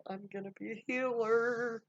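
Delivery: high, loud, thrilled announcement; excited girl. Acted. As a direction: shout it out to the girls with joy. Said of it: "they were so excited for".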